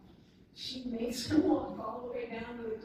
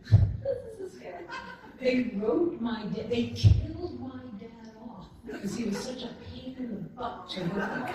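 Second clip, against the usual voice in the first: laughing while quoting; 3 semitones higher than usual. Retold or imitated. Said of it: "the dude who wrote it said".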